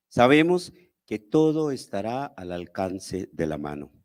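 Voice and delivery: measured poem reading with long pauses between lines; poetry recital. Acted. Poet reciting exile poems to an audience, measured declamation.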